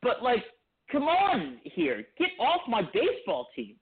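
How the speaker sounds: condescending, mocking tone; mocking Jeff Wilpon. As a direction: sneer it like a smug owner. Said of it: "like, mockingly, like, condescending tone".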